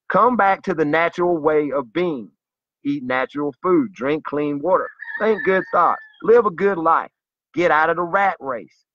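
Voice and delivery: zealous, rising plea in short urgings; impassioned, emphatic exhortation. Real, not acted. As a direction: urge it like a fervent believer. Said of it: "zealous about it".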